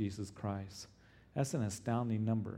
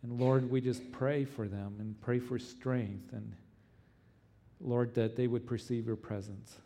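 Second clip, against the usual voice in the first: earnest pleading prayer. Acted. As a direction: pray earnestly for the persecuted. Pastor leads congregation prayer.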